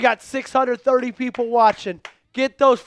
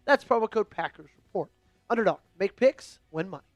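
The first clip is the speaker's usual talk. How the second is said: upbeat sponsor read, even and practiced; 4 dB quieter than usual. Acted. Host reads sponsor spot to stream viewers, practiced ad voice.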